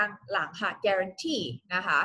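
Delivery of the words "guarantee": GUARANTEE stressed on its final syllable; stress on last syllable. Shown as a demonstration. Teacher demonstrates reading, guarantee stressed on the last syllable. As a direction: lean on the "tee" ending of guarantee. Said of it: "เวลาอ่านเนี่ยลงเสียงหนักที่พยา".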